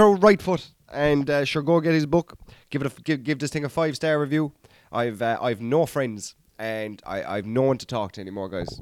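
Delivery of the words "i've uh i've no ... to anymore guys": lower, softer mock lonely lament; mock self-pity. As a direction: fake a sad confession as a joke. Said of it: "No, I'm only messing".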